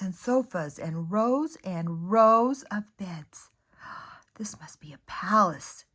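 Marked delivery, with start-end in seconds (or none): 4.3-5.8 gasped. Acted. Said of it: "gasped Corduroy".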